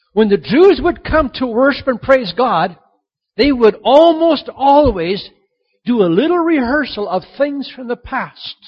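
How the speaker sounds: high, loud, ringing preacher's declaration; sermon climb to fervent preaching; preaching at full force. Acted. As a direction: proclaim it to the whole congregation.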